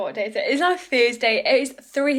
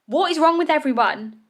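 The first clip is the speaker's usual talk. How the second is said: exasperated; 4 semitones higher, 4 dB louder than usual. Real, not acted. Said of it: "I'm actually fuming".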